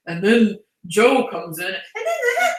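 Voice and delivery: half-hearted try at an audiobook character voice; character voice attempt. Shown as a demonstration. Podcaster showing why audiobook voices are hard, mock character voice. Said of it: "doing the voices becomes hard".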